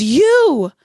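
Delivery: imitating a shout. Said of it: "she goes".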